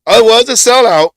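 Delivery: high, loud insistence; emphatic. Real, not acted. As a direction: stress that it sold out. Emphatic confirmation to co-host.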